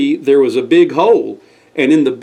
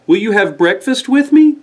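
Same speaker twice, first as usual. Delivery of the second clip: higher, hopeful invitation; lightly voiced Squire; 7 semitones higher than usual. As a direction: open the door kindly.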